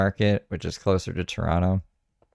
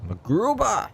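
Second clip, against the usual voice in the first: calling out a name; 13 semitones higher, slower than usual. Pretend. Shouting the character's name.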